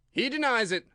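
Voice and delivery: a king scolding his subject; loud reproving royal voice; stern king. A narrator's reading.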